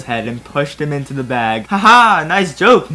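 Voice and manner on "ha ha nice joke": mock laugh. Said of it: "Mace Windu laughed".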